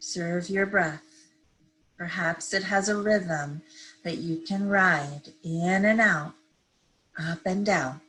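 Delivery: calm, unhurried meditation guide; measured phrases with long pauses to breathe; guided meditation. Real, not acted. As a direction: ease listeners gently into stillness. Leads a seated meditation.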